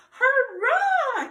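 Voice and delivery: loud, high joyful hurrah; cheer. Acted. The animals cheering as colors return, loud cheer. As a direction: shout it like a happy crowd.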